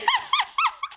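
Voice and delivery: a high, shrieking burst of laughter; a real shriek of laughter. Real, not acted. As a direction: crack up and shriek with it. Laughing fit continues.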